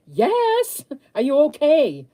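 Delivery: high, loud, urgent reply; frantic relief. Retold or imitated. A mother finally hearing from her missing son, high and loud. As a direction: blurt it out, desperate to know.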